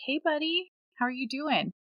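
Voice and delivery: put-on high-pitched greeting to a small child; gentle parent greeting. Mother walking in on her sleep-talking son, gentle.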